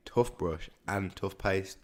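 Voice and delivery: TOOTHBRUSH and TOOTHPASTE with short oo and f, like "tuff"; regional pronunciation. Shown as a demonstration. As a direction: say TOOTHBRUSH and TOOTHPASTE as "tuffbrush, tuffpaste". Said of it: "Usually people will say".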